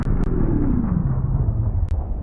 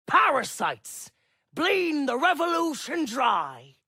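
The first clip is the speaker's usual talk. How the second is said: angry shouting; 3 semitones higher than usual. Acted. Speaker rails at crowd.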